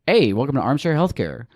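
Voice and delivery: slightly affected podcast host greeting; show intro voice. Shown as a demonstration. Host demonstrating how they open the show, slight intro voice. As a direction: lightly put on your presenter voice. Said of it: "a little bit of a different voice when I introduce".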